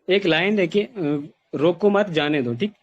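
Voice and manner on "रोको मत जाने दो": "रोको मत" as one phrase, then "जाने दो"; group "रोको मत" together, meaning don't stop them; slow "रोको मत", break, "जाने दो"; pause after मत. Shown as a demonstration. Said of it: "पहली लाइन में ये है".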